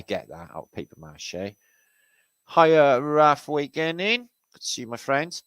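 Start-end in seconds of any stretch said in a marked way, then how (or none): 2.5-5.4 hammed-up cheery hello; put-on greeting voice. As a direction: hail him in a silly higher voice. Greeting a pictured man.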